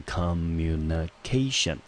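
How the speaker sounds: communication said slowly with the weight on CA; slow model of communication, leaning on the fourth syllable; teacher models communication stress. Shown as a demonstration. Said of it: "它的中音节落在K这个音节".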